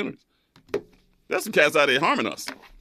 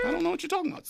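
defensive; 14 semitones higher, 8 dB quieter, much faster than usual. Real, not acted. Flustered denial, pitch very high.

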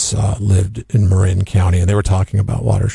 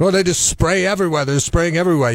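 a hint of an Irish lilt, higher; light Irish accent; 8 semitones higher, faster than usual. Host imitating his Irish sprinkler guy, light Irish accent. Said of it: "he's Irish, so he says it like".

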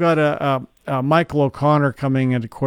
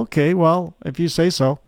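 slightly higher, half-convinced concession; mildly puzzled; 4 semitones higher than usual. Retold or imitated. Host recalling how he humoured the analyst, mildly puzzled. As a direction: retell a doubtful going-along. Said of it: "I'm a little puzzled".

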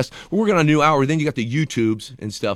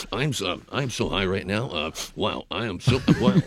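Johnny Carson on cocaine; 4 semitones lower, 5 dB quieter than usual. Pretend. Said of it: "It's Johnny Carson on cocaine".

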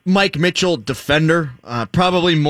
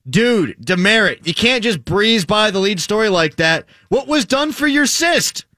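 mock indignant tweet; 4 semitones higher than usual. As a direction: read it like a put-out listener. Reads out listener's indignant tweet.

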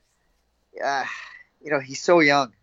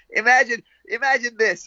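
amused disbelief; 8 semitones higher than usual. Real, not acted. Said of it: "incredulous setup".

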